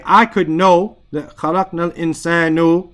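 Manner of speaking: خَلَقْنَا الْإِنسَانُ said fast, ending الْإِنسَانُ with a dhamma on purpose; quick demo of the mistaken ending; deliberate wrong vowel. Shown as a demonstration. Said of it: "I put a dhamma on there on purpose".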